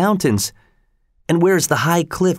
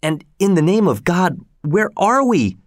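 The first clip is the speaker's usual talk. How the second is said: rising high and frantic; alarmed cry; 8 semitones higher than usual. A narrator's reading. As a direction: cry out, lost on a strange beach. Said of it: "cried Keola".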